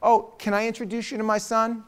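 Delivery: lightly imitated well-off parent; a hint of Long Island parent; affluent parent. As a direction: play a parent making polite introductions. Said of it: "they talk like this".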